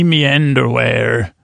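"me underwear" with "me" for "my", drawn out slowly. Real, not acted. Host naming his underwear brand, says "me" for "my". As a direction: say "me underwear", "me" in place of "my", unhurried. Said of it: "I say, instead of my, I say me".

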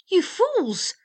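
high, loud scolding shout; exasperated storybook cry. A narrator's reading. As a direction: yell it at them, pitch up. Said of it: "cried he".

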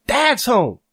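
thrilled shout. Acted. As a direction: burst out with a child's glee. Kid thrilled dad is home.

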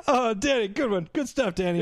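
put-on delighted appreciation; mock hysterical amusement. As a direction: gush over a lame joke, hammed-up. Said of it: "she's laughing hysterically at something".

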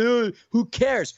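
slow, drawn-out mock shrug; mocking dismissive. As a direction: sneer it like a bored rival fan. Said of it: "that voice was exactly how they sound".

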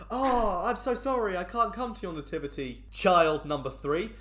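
mock apologetic. Parent excusing herself from child's nativity, mock apologetic. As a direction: play the hammed-up apologetic parent.

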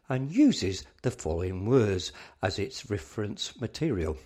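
measured radio introduction, slightly lifted; scripted announcer read. Acted. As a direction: present the next piece formally, phrase by phrase. Scripted introduction of the next piece.

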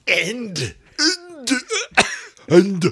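high, exaggerated silly accent; silly mock-Scottish-sounding accent. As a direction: put on a daft, made-up accent. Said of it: "that was just a silly accent".

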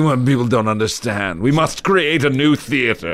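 mock-earnest manifesto; lightly mocked theater zealot. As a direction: declaim like a pretentious young artist. Mocking pretentious young theater people.

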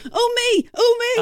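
high, eager oh me; eager volunteering. Real, not acted. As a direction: call out to be picked.

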